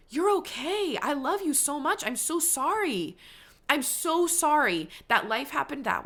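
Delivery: tender self-talk. Real, not acted. Host comforting her past self about debt, tender and emotional. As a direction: speak to your past self like a loving friend. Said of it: "Oh, I'm getting emotional".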